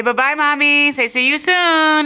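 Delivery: high sing-song goodbye; talking to a dog. Real, not acted. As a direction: coo a sweet goodbye.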